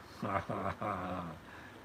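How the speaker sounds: low, soft run of chuckles. Real, not acted. Host amused after naming a stock, low chuckling. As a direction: chuckle softly to yourself.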